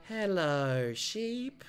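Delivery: put-on a ghost child's hello; creepy twins. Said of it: "creepy twin shtick".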